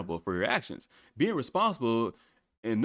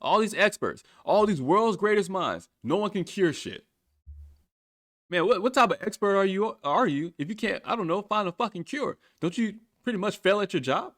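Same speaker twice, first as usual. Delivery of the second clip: frustrated rant; 6 semitones higher than usual. Real, not acted. Rant continues high and loud.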